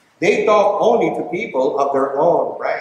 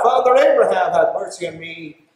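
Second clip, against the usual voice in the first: rich man crying out. Retold or imitated. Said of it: "And then he cried out".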